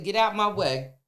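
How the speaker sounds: loud, high push past her; urgent yell. Retold or imitated. Daughter forcing past a stranger to reach her mother, loud and urgent. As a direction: shove her aside with your voice.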